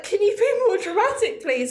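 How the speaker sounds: a lightly sarcastic plea; mock teasing. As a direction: tease him with the question. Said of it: "I was like".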